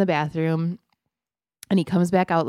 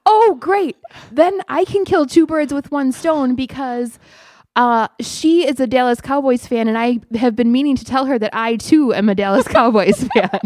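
loud, higher schoolboy voice, carrying to the teacher; yelling down the hall; 6 semitones higher, 5 dB louder than usual. Retold or imitated. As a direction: imitate an excited kid calling back, high and loud. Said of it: "he's yelling down the hall to me".

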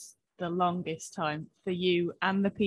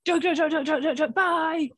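higher, louder rapid-fire joke voice; mock American comedian; 10 semitones higher, 6 dB louder than usual. Mocking how American comedians open, brash and loud. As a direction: rattle them off like a brash American stand-up, then a quick bye. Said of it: "American comedians come out and it's just like".

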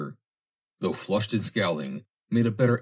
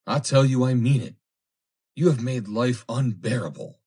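heated insistence; 6 semitones higher, 5 dB louder than usual. A narrator's reading. Suitor's acted quarrel with the girl.

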